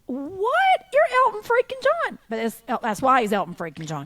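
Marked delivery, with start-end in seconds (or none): 0.1-2.2 high-pitched, starstruck disbelief; acted-out astonishment, pitch shooting way up; incredulous. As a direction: squeal it in amazed protest. Acts out amazed reaction to a singer's thanks.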